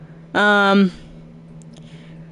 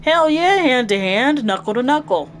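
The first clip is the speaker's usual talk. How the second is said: excited; 5 semitones higher than usual. Acted. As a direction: jump at the chance to fight. Mondo excited about the fight.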